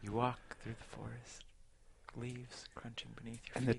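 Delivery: asmr-style storyteller narrating voice. Joking about an ASMR-style D&D campaign: imitating ASMR narration. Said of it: "like the A S M R".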